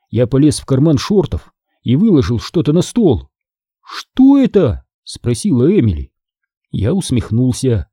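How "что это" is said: put-on high, slow wondering girl; a puzzled girl's question; girl asking about an object; curious girl. A narrator's reading. Emily curious.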